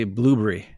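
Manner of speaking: "blueberry" squeezed to blue-bree; British-style blueberry. Shown as a demonstration. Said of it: "they say it with their accent".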